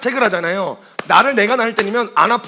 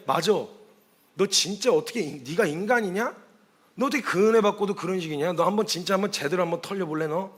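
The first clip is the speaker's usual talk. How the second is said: stern confrontation; 6 dB quieter than usual. Retold or imitated. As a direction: act out a quiet challenge, softly menacing. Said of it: "태도를 바꿔봤어요".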